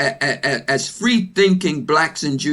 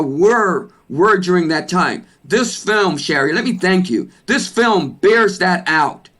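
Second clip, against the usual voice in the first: loud. Real, not acted. Guest thanking host for the film, loud. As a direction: speak up with real insistence. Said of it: "You're speaking very loud".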